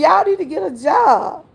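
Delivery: repeated scolding. Retold or imitated. Grandma repeating her advice to the kids, firmly. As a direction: say it again like you mean it. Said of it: "I told you".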